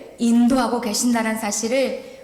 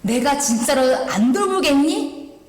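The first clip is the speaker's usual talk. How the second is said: voice of God; 7 semitones higher than usual. Retold or imitated. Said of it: "이렇게 말씀하셨어요".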